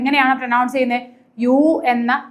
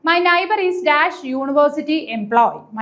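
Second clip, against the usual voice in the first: very slow, slightly raised reading; dictating the exam sentence slowly; slow question reading; much slower than usual. Shown as a demonstration. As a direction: read it out word by word for students. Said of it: "first question എന്താണ്".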